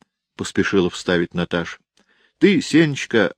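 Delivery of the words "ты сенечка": put-on high, loud little girl; a small girl scolding her brother. Girl scolds Senechka, high girl voice.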